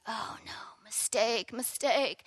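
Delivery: whispered quick oh no; unvoiced realisation of a blunder; panicked whisper. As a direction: hiss it to yourself in alarm. Retold inner panic, whispered.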